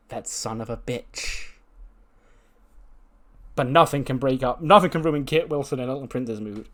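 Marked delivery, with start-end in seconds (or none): 0.1-1.5 muted mock anger. Retold angry discovery.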